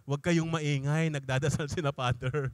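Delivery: low-pitched, mock cautioning voice; imitated hushing activists. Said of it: "Sabi ng mga ano". (kunwaring mababang pananaway)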